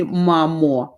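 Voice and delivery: "mamo" said the Ukrainian way, ending in o; Ukrainian pronunciation. Shown as a demonstration. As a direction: show the Ukrainian word "mamo". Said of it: "and in Ukrainian, it will be".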